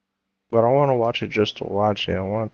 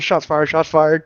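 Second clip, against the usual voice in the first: slow, slightly raised alarm call; kid cop on radio; 3 semitones higher, 4 dB louder, slower than usual. Retold or imitated. Retelling the kid cop's radio call, mock urgency. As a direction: mimic an officer calling in gunfire. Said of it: "He goes".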